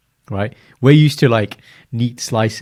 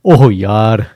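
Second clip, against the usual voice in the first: Punjabi exclamation; 10 dB louder than usual. Retold or imitated. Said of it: "the Punjabi".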